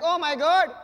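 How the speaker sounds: loud, hammed-up panic; mock-panicked shopkeeper shouting; freaking out. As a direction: cry out in mock alarm, drawing out the doom. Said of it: "freaking out".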